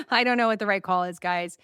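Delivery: quick amused shrug in the voice; laughing. Real, not acted. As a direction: laugh it off, unsure. Laughs while admitting uncertainty.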